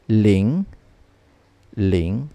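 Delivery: Ling dipping and rising in pitch; number zero reading. Shown as a demonstration. Teacher reading zero to learners, Ling with rising tone. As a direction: slide Ling upward to the end. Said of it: "we'll read it as".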